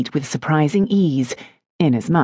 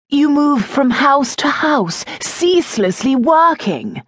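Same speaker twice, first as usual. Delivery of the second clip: lovesick lord, voiced much higher; earnest suitor begging, raised pitch; Dibbleshire pleading; 11 semitones higher than usual. A narrator's reading. Lord declaring his devotion to India, lovesick and higher.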